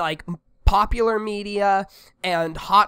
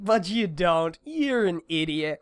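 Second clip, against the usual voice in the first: smug dog voice; slower than usual. Retold or imitated.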